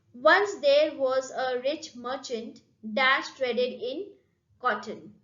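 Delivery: once there was a rich merchant read slowly; slow reading aloud. Shown as a demonstration. Teacher reads the sentence to students, slowly. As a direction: read the exercise out word by word. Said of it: "Dash have done my work".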